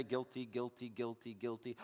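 soft, resigned sinner admitting each charge; a lightly voiced defendant conceding; mumbled run of guilty pleas; resigned pleading guilty. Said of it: "you just say".

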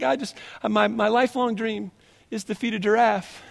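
little daughter voice. Retold or imitated. Dad voices daughter's lifelong dream.

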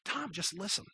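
soft, hushed retold plea; gentle correction. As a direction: voice a wife quietly reining in her husband. Wife gently corrects the fixer.

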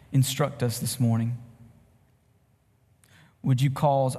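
measured, reverent public prayer with pauses. Real, not acted. Leads opening prayer.

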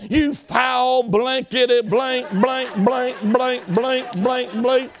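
slow mock shout of curses; cursing shout. A retold biker cursing his cancer in a slow mock shout. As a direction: bellow the blanked-out cussing. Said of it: "He said".

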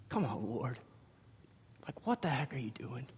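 frustrated prayer. Retold or imitated. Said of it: "I was just mad at God".

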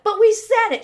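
high, loud mock-kid whine; imitating a child's indignant complaint; protesting child. Children protesting to their mother.

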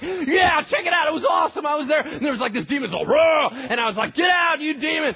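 high, loud squealing retelling; giddy screaming. Acted. Disciples returning from mission, screaming with excitement. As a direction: gush like thrilled kids squealing. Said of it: "they're like little girls screaming".

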